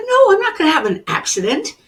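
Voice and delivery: high, loud, fast denial; indignant protest. Retold or imitated. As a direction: fire back in disbelief at the warning. Arguing with her intuition.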